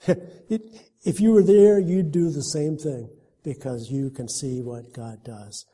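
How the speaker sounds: laughing, eager call to friends. Retold or imitated. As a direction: tell friends with a chuckle. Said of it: "so I could tell my friends".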